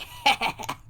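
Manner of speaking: short, hoarse mock cackle; quick put-on creature laugh; imitated gremlin cackle. Imitating gremlins' reaction to lights.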